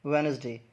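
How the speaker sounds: वेडनेसडे with the d dropped, "wenz-day"; correct pronunciation. Shown as a demonstration. Teacher models the word for learners, correct pronunciation. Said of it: "इसकी जो pronunciation है".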